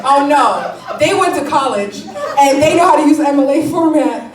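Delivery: loud, laughing sarcastic gasp; mock horror over the college crowd; mock outrage. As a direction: sneer at them with a laugh. Mocking people who defend them.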